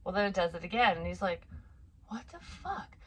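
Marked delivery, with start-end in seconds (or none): 2.1-2.9 high, soft questioning near-whisper; hushed bafflement. Retold or imitated. Father hearing the toy talk again, hushed bafflement. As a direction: breathe it out softly as a baffled question.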